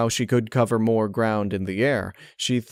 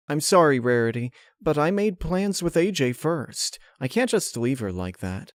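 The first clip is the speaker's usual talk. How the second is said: put-on higher, sorry young mare; Twilight voice; 6 semitones higher than usual. Twilight refusing Rarity again, higher and sorry. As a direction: voice Twilight, kind but firm.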